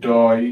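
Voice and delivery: "টয়" with a clear oy glide; oy sound. Shown as a demonstration. Teacher showing learners the oy sound in "টয়", slow demo. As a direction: say "টয়" slowly, ending in oy. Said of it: "সেটাকে বলা হয় আমাদের অয় দিয়ে".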